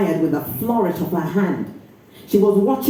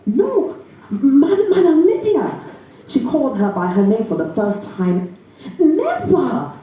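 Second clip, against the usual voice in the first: higher, stammering denial; bewildered denial; 5 semitones higher than usual. Acted. Accused girl denying theft to Madam Lydia, bewildered. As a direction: deny it in shock.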